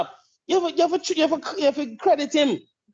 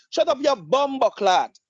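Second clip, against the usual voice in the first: Jamaican patois; slower than usual. Retold or imitated. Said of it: "Me drop, me drop in the accent there".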